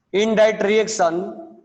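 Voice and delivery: very slow, stretched dictation; slow classroom dictation. Shown as a demonstration. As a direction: drag each word out so the class can write. Dictating a definition to students.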